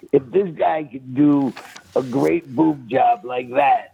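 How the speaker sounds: laughing through the punchline. Real, not acted. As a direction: chuckle your way through the joke. Laughing through his joke.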